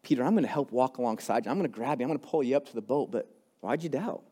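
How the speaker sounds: a touch of gentle comfort; reassuring Jesus. Shown as a demonstration. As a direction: promise to help him, gently. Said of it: "more of the conversation that Jesus had".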